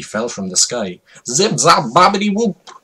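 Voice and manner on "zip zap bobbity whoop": high, loud silly magic shout; a goofy character exclaiming nonsense; excited exclamation. Acted. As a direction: burst out like a wild wizard. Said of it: "exclaimed Bill Cosby".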